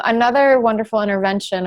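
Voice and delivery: mildly sarcastic praise; a little sarcastic. Real, not acted. Guest wryly introducing iodine as a public health fix, mildly sarcastic. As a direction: say it with a touch of irony. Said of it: "I'm being a little sarcastic".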